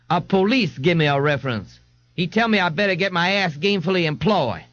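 easy, unbothered reply; laid-back man. Acted. Jones voiced.

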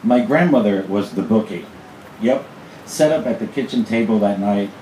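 measured, emphatic poem delivery with pauses; performed humorous poem; poetry reading. Acted. Reads own poem aloud.

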